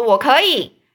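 loud, stubborn I-can; child insisting he can; mock kid shouting back; insistent shout.

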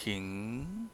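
Ting said softly, pitch sliding upward; rising tone. Shown as a demonstration. Teacher showing the rising tone of Ting to students. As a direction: let Ting climb like a question. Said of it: "hacia arriba".

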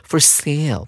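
"sale" said with a long AY glide; teacher's clear "sale", rhyming with "tale"; careful model pronunciation. Shown as a demonstration. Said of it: "同学们要特别注意它的发音哦".

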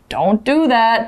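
slow, firm "don't"; firm warning. Shown as a demonstration. Teacher showing a warning, slow and firm. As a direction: warn someone off, slowly. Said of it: "if you're warning somebody".

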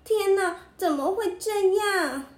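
panicked. A narrator's reading. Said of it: "小公主可慌了".

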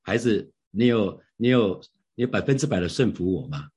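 mildly gentle, slowed-down voicing of the Holy Spirit. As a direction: ask tenderly, taking your time. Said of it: "圣灵就很温柔地问我说". (温柔地慢慢问)

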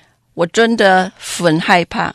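Hakka-accented Mandarin. Shown as a demonstration. Dubbing director demos a comic character line, Hakka-accented Mandarin. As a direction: play it funny with a thick Hakka accent in Mandarin. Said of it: "but in that way".

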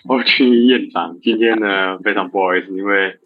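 hiccuping between words; with hiccups. Real, not acted. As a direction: talk while fighting hiccups. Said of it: "因为突然开始有点打嗝". (边打嗝边说话)

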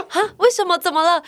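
high, loud startled questions; mother startled at the tutor quitting, high and loud; surprised mom. Retold or imitated. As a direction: react in disbelief.

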